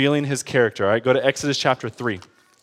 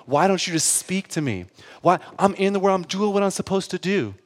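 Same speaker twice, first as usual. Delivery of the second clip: softer, worn-out pleading climbing in pitch; weary complaint; 3 semitones higher, 4 dB quieter than usual. Retold or imitated. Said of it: "I start this whole spiel again".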